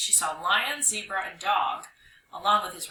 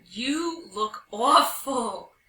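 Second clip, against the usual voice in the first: slow, stretched, louder exclamation; mother's cry; 4 semitones higher, 5 dB louder, much slower than usual. Acted. Mama Hyena seeing her dusty child, crying out. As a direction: exclaim it with drawn-out words. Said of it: "cried Mama Hyena".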